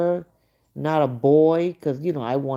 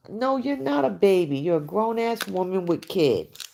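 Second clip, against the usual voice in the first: higher-pitched indignant correction; scolding retort; 4 semitones higher than usual. Acted. Telling a grown woman she's not a baby, scolding. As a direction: set her straight, indignantly.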